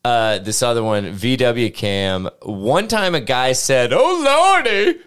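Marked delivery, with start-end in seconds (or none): 3.9-5.0 grave, solemn exclamation; very serious. Retold or imitated. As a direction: say it with dead seriousness. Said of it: "in a very serious manner".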